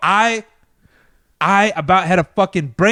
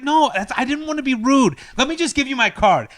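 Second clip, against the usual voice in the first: imitated insistent woman; 7 semitones higher than usual. Acts out woman insisting, pleading.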